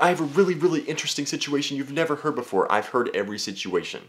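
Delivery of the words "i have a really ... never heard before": mock asker. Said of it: "people are just like".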